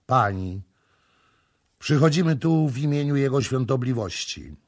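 loud, solemn priestly address. A narrator's reading. High priest addressing the grieving Sara, solemn and loud. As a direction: announce it with grave authority. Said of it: "dotknął jej ramienia i rzekł".

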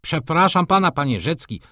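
high, apologetic little voice; humble interjection. A narrator's reading. Gutmorgen interrupting the angry Rzecki, humbly. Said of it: "wtrącił z pokorą Gutmorgen".

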